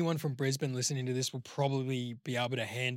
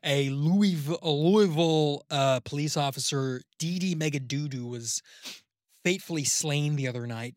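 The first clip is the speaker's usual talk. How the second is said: measured American news read; lightly hammed-up anchor, drawn-out words; slower-paced news anchor. Shown as a demonstration. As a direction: pace it like a newsreader. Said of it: "too quick on the pace".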